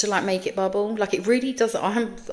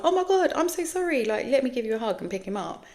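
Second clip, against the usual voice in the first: sorry parent voice; 6 semitones higher than usual. Retold or imitated. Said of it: "a normal person who would just say".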